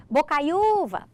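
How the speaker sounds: "bocaiúva" called out, lingering on the "ú"; called like a name. Shown as a demonstration. Teacher testing where the stress stops, called like a name. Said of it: "chamar a palavra como se ela fosse um nome".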